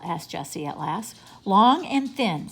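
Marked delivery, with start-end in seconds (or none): 1.4-2.5 slow, pleased, higher voice; happy. A narrator's reading. Benny tells Jessie the tail he wants, happily. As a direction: savour it happily, louder and drawn out. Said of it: "said Be-, Benny happily".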